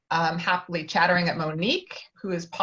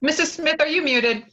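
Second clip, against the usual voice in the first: raised, higher call to a muted partner; a raised voice hailing someone on mute; 8 semitones higher, 4 dB louder than usual. Real, not acted. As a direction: call out to check they can hear. Calling to muted actor.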